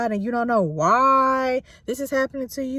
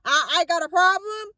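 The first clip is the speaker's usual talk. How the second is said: distressed; 8 semitones higher than usual. Retold or imitated. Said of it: "This was Job's feeling".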